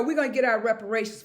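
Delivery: fast and loud, rallying; loud, fast declaration. Real, not acted. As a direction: proclaim it fast to the crowd. Insisting on reparations, rising.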